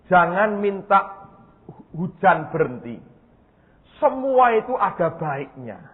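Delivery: God speaking slowly and deliberately, each word drawn out. Retold or imitated. Pastor voicing God as He forbids the prayer, slow and deliberate. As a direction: let God's words fall slow and weighty.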